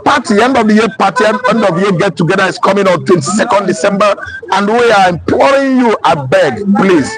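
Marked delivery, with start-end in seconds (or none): 6.0-7.1 "I beg" said lower, in Nigerian pidgin; pleading "I beg" in Nigerian Pidgin. Shown as a demonstration. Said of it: "I beg in pidgin English".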